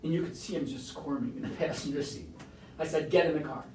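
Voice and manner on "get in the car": firm order. Retold or imitated. Father ordering child into car.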